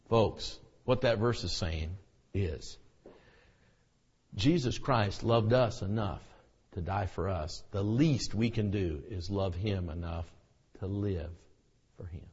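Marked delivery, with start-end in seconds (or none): none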